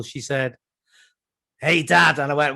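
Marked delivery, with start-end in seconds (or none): 1.6-2.2 put-on kid's newly picked-up Bristol accent; imitated Bristolian accent. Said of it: "She turned into a Bristolian".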